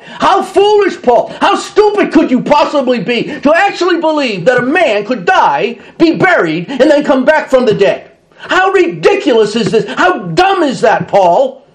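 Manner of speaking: high, incredulous ridicule; scornful scoffer. Acted. Preacher voicing scoffers ridiculing Paul, a mild mocking scorn. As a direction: taunt Paul as a foolish believer.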